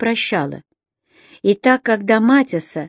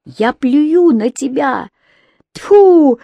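louder, higher spitting shout; defiant shout; 5 semitones higher, 5 dB louder, much slower than usual. Acted. Рони spits defiance at her father, loud shout. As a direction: spit the words at him. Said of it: "закричала Рони".

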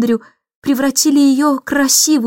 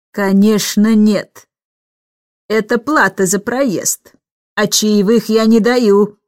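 curt; slower than usual. Acted. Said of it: "отрезала пассажирка".

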